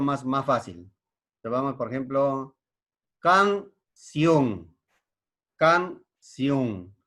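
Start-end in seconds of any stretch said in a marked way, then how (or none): 3.2-4.8 "canción" in two beats, each hit firmly; syllable by syllable. Shown as a demonstration. Teacher showing a two-syllable word, "canción" split with a pause. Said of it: "Esa palabra tiene, eh, dos sílabas". 5.6-7.0 "Canción" split into two slow beats; syllable by syllable. Shown as a demonstration. Teacher repeating a two-syllable word, "Canción" split in two. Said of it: "Esa palabra tiene, eh, dos sílabas".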